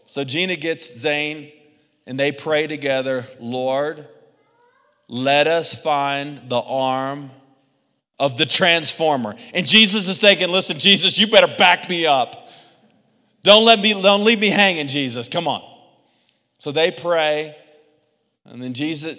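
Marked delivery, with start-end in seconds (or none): 3.4-9.4 slow, earnest prayer voice, drawn out. Retold or imitated. Mom praying with child. 10.5-15.7 much louder, pleading with Jesus; urgent plea. Retold or imitated. Pastor's inner plea to Jesus.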